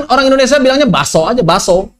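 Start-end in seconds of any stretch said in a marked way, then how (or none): 0.9-1.2 "baso" with no k and no catch; k dropped. Shown as a demonstration. Teacher showing common Indonesian speech, k dropped. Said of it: "Itu dihadzaf itu kafnya". 1.4-2.0 "baso" with no k at all; k dropped. Shown as a demonstration. Teacher showing common Indonesian speech, k dropped. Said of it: "Itu dihadzaf itu kafnya".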